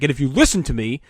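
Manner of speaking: LaRue-ish. Retold or imitated. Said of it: "Very LaRue-ish".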